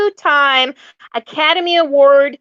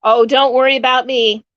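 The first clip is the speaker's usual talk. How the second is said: put-on light Southern accent on the quote; a touch of a Southern lady. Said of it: "Nice southern accent".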